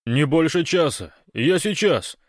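high, loud, eager answer; urgent radio reply. A narrator's reading. Большой tells Гош the timing, loud and hurried. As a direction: answer loudly, ready to dash off.

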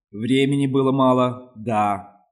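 loud, firm declaration. Acted. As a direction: announce it loudly. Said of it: "громко заявила она".

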